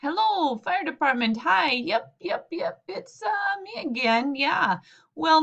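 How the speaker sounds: frazzled uncle begging the fire department; exasperated phone call. Acted. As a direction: rush the excuses. Exasperated Murray, higher.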